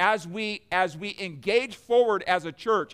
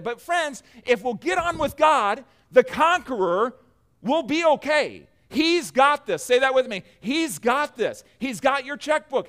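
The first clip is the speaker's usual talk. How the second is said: raised, louder preacher's voice; rallying preaching; 5 semitones higher, 3 dB louder than usual. Real, not acted. Preacher urging the congregation to say it with him, rallying. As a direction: preach it high and emphatic.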